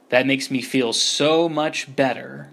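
slow, dry sarcastic reply. Acted. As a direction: say it flatly sarcastic. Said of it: "said Redfeather sarcastically".

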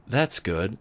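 lightly voiced, cheerful; bright. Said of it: "Spike said brightly".

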